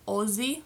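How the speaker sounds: Aussie starting with an O sound; O pronunciation. Shown as a demonstration. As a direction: say Aussie as if spelled Ozzie. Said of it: "like there's an O".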